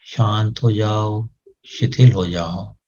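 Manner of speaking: slow, soothing repeated command; slow calming command. Shown as a demonstration. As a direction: lull the head into stillness. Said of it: "मन ही मन बोलना है". (धीरे-धीरे शांत करता आदेश)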